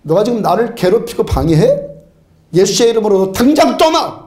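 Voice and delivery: building to a firm, half-laughing order; mock angry command. Shown as a demonstration. Preacher ordering the sickness to leave in Jesus' name, hammed-up anger. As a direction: drive it out on the final command. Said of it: "화를 벌컥 내면요".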